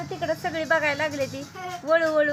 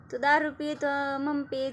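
ordinary delivery

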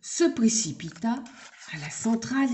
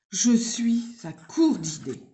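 whisper. Acted. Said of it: "soupira-t-il".

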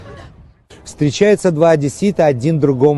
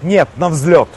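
laughing shout; 3 semitones higher, slower than usual. Acted. Punchline laughed out.

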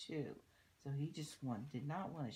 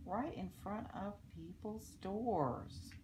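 put-on lilting story verse for children; read-aloud rhyme; 3 semitones higher, 5 dB louder than usual. A narrator's reading. Reading a rhyme about littering to children, storybook read-aloud. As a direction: read the verse out clearly, in measured phrases. Reads a rhyming book aloud.

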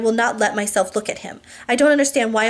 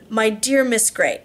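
weight on "my" in a slow phrase; stress on my; slower than usual. A narrator's reading. Husband correcting his wife by email, stress on "my". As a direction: lean slowly on "my", possessively. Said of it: "emphasis on my".

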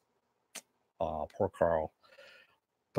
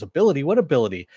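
higher and louder, baffled repeat of ability; startled disbelief; 5 semitones higher, 8 dB louder, much faster than usual. Retold or imitated. Arthur catching Dot's slip, startled and louder. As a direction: snap back the word in disbelief. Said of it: "he goes".

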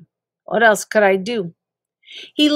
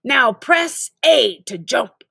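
slow game-tutorial voice; 3 semitones higher, slower than usual. Acted. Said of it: "Good news".

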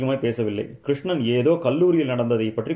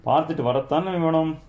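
weight on வேணும், the last word leaned on; stress on the end; 4 semitones higher than usual. Acted. Mother answering her son, pointed stress on வேணும். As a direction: let வரத்தானே வேணும் land heavy at the close. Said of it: "அழுத்தம் பின்பகுதியில் விழுந்ததை கேட்டு".

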